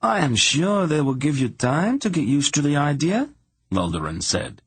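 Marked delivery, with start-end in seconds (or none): 0.0-3.3 high-pitched, reassuring character voice; earnest, eager friend. Acted. Laldoran encouraging his reluctant friend, earnest.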